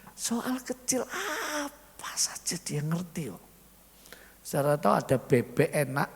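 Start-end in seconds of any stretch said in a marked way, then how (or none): 0.1-3.4 slow hushed aside to the congregation; slow whisper. Real, not acted. Preacher confides to the congregation, whispering slowly. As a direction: let them in on a secret, barely voiced.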